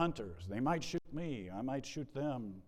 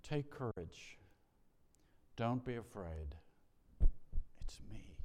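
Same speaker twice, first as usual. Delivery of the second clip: tender words of Jesus trailing into a hush; gentle fading to a whisper. Acted. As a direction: comfort them, let it sink to a whisper. Jesus's words, first telling.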